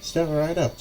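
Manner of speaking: high, carnival-barker call; strange carnival barker voice. Acted. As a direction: beckon the crowd in a high, odd barker voice. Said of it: "completely different sounding voice than you expect".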